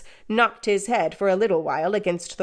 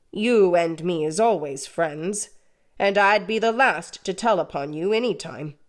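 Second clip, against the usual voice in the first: confidential. Acted. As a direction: share it as a secret between friends. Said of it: "speaking in a confidential voice".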